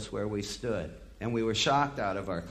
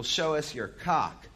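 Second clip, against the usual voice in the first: slow, higher heckle from the crowd; mock heckler yell; 4 semitones higher, slower than usual. A yahoo heckling a singer, a mild mock yell. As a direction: call it out like a drunk heckler. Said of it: "screamed out".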